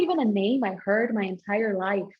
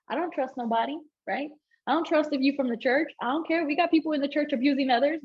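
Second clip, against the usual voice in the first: raised, fired-up retelling of her warning; protective mom; 3 semitones higher than usual. Retold or imitated. Telling the pastor she won't leave her kids, fired up. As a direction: insist she'll be right there with her kids.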